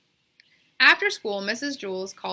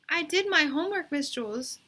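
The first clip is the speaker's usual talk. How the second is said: put-on girl's insistent voice; 9 semitones higher, 3 dB louder than usual. A narrator's reading. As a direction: draw out the yes like a stubborn kid. Bebe to teacher.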